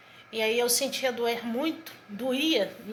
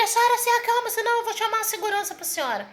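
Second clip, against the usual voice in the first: high, urgent retold warning; mock-stern warning in a raised pitch; alarmed doctor; 8 semitones higher than usual. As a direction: imitate a flustered doctor issuing a threat. Acted doctor threatening to call security.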